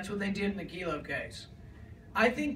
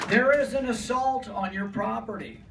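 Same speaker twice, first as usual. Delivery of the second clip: rally speech; 5 dB louder than usual. Real, not acted. Rally crowd, rousing line.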